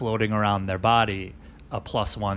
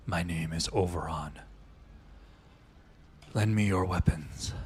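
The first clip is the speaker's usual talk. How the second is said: low voice; 2 semitones lower, 5 dB quieter than usual. Acted. Wounded creature beckons the party over to speak, low voice. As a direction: speak low, pausing between the sentences. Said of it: "in a low voice".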